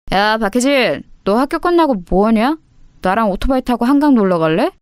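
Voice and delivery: lightly voiced cocky school bully; delinquent senior boy. School bully asking a younger girl out, delinquent swagger. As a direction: come on to a younger student like a punk. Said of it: "접근 방식이 상당히 불량했다고".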